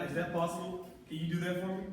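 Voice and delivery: undemanding, upbeat question tune on "possible"; upbeat asking inflection. Shown as a demonstration. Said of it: "the inflection in my voice".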